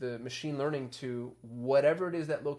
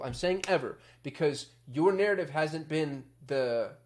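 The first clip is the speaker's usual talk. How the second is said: insistent, stressing "ever"; fired up; 3 dB louder, slower than usual. Real, not acted. Marketer challenging Display and YouTube people, fired up. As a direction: drive the point home with heat. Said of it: "getting so fired up about this".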